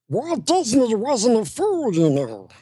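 knowing aside. Retold or imitated. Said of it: "I come close to the camera and I say".

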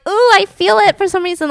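wincing. Acted. Wincing at imagined penis pain.

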